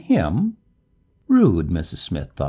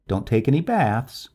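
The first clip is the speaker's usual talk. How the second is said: higher, attempting a joke; would-be humorous; 6 semitones higher, 4 dB louder than usual. A narrator's reading. Neighbor at the open door, trying to be humorous. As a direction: try to make it sound funny. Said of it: "tried to make humorous".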